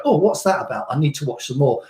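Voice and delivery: mild curious "Oh" falling; intrigued viewer. Retold or imitated. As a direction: imitate a viewer who gets hooked, lightly. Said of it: "makes them sit up and go".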